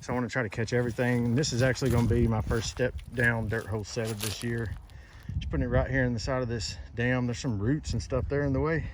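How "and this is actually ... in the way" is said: slightly out of breath; talking while winded from digging. Real, not acted. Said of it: "that's why I'm a little out of breath right now".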